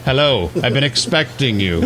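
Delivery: lightly voiced Bond villain; smug villain greeting. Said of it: "Hello, Mister Bond".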